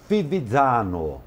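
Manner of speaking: Fivizzano said slowly with an Italian lilt; careful Italian pronunciation of the town name Fivizzano; Italian accent. Shown as a demonstration. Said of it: "com esse sotaque de italiano".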